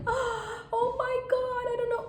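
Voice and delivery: very high, drawn-out mock wail; hammed-up panic. Shown as a demonstration. Worried woman showing the wrong way, hammed-up panic. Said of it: "I can't even do that".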